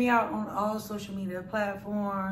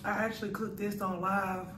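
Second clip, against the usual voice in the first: talking with food in mouth; speaking between bites; tags: chewing while talking; faster than usual. Real, not acted. Seen 0: Bit food at -12, chews after, then talks with food in mouth.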